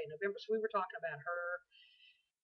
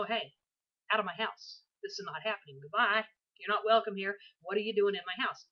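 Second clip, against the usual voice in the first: confronting an intruder; 4 dB louder than usual. Pretend.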